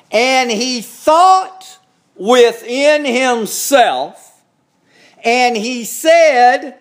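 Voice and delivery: solemn pulpit reading, stretched phrase by phrase; scripture reading. Acted. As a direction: preach the parable out, drawing out key phrases. Reads the parable aloud.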